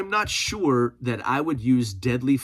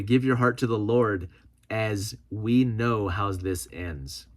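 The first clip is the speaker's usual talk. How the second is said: slow, earnest reading of a comment; slow, grave preacher-ish read. Retold or imitated. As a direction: read it like a solemn warning. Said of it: "Larry Ambrose says".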